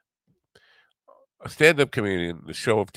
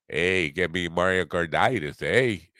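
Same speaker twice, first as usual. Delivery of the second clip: put-on Canadian accent; slower than usual. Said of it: "That's my Canada".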